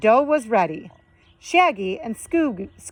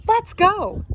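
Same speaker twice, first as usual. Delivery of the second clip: Fred voice; 11 semitones higher than usual. Acted.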